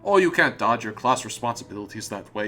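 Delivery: indignant comrade in a bad Russian accent; terrible Russian accent. Foster scolds the intellectual guest, bad Russian accent. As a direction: scold the guest like a stern commissar. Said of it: "terrible Russian accent from now on".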